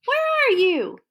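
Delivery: high worried call; Bill searching for George; anxious call. Acted.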